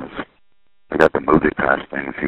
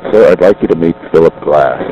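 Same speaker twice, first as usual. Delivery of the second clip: retelling a loud, proud introduction; full voice; 3 semitones higher, 8 dB louder than usual. Retold or imitated. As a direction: announce it loud and confident. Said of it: "he said it in a full voice".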